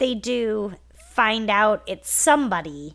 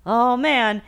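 put-on whiny baby; 2 semitones higher, 4 dB louder than usual. Podcast host mocks a sitcom dad complaining about guests, whiny. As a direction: gripe like a whiny baby, quick and pushed. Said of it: "this is where whiny baby Ward says".

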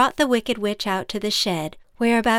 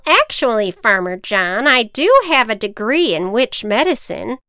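lightly voiced proud witch; witch, a bit smug; 2 semitones higher, 6 dB louder than usual. Witch correcting farmer.

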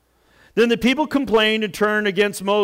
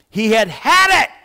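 loud, higher-pitched emphatic burst; exasperated; 5 semitones higher, 9 dB louder than usual. Retold or imitated. Preacher describing a fed-up Moses, exasperated. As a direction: punch it out at the end of patience.

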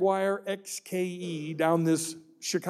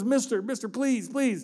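put-on higher, tearful child's plea; pleading child; 5 semitones higher than usual. Crying boy begging the driver to stop and help, tearful plea. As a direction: beg the stranger like a crying boy. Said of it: "the kid's just starting to cry".

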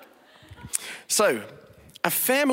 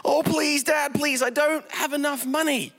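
much higher, pleading cry; crying for mercy; 9 semitones higher than usual. A narrator's reading. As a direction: beg Dad in a frightened child's voice. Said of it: "the son cried for mercy".

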